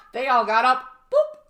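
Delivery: laughing through the words. Real, not acted. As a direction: giggle while saying it. Laughing while telling.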